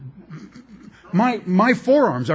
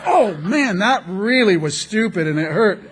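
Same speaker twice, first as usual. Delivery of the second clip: acted pained regret; 5 semitones higher, 4 dB louder than usual. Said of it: "and go".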